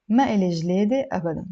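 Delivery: careful, slightly slow model reading; measured lesson reading; a little slow. Shown as a demonstration. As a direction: take it gently slow for learners. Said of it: "a little bit slow".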